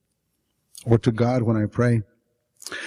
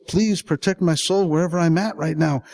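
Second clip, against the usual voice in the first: higher-pitched plea for protection; urgent, raised supplication; begging; 5 semitones higher than usual. Acted. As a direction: beg heaven to keep you safe. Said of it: "I beg the angels".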